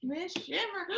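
soft high breathless awe; awed gasp. A narrator's reading. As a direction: catch your breath in wonder. Fish gasps in awe.

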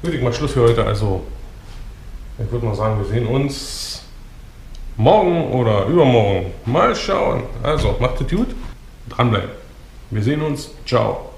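sore throat voice; strained words from a sore throat; swollen tonsils voice. Real, not acted. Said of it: "ich kann nicht richtig reden mehr".

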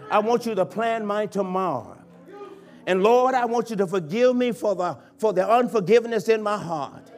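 fervent spoken prayer to God, swelling then fading; model prayer. Pretend. Preacher leading congregation in prayer, fervent pleading. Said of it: "If you say to God".

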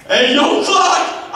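loud holler across the store; calling out. Acted. Customer hollering for the clerk across the store, loud call. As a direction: shout for the clerk from afar.

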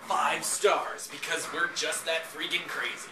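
slow, loud mock ad praise; sarcastic. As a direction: read it like a fake rave review.

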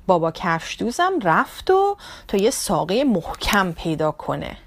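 plain reading voice

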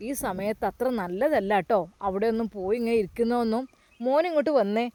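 put-on a kindly elder asking a grieving boy what's wrong; concerned old man. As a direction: caretaker finding the boy at his father's grave, lightly voiced. Caretaker calls boy from graveyard.

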